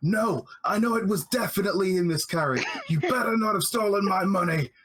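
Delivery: big, loud, high, bellowing, booming shout. A game master voices someone shouting from inside a carriage, in a loud booming voice. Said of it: "a loud booming voice coming from inside the carriage".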